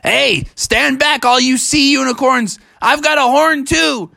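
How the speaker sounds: acted high-pitched bravado; defiant Bubby. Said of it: "And Bubby said".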